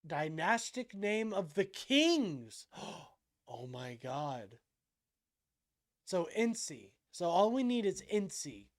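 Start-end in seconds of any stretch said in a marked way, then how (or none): 2.7-2.8 sudden shocked intake of breath; sharp gasp. Real, not acted. Finds dynastic meaning. 3.5-4.6 softer, lower, slow stunned oh my God; awed hush. Real, not acted. After the gasp.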